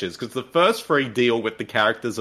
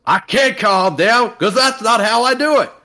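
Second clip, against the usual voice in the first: shrill character voice; 10 semitones higher, 5 dB louder than usual. Acted. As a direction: whine it up high. Voicing a character's outburst.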